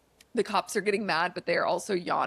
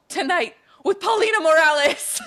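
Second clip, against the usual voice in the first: laughing; 10 semitones higher, 10 dB louder than usual. Real, not acted. Punchline of the reveal.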